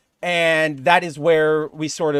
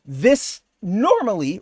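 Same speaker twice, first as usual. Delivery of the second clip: voice crack; 2 semitones higher, slower than usual. Real, not acted. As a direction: voice cracking mid-word. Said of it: "what happened to my voice there".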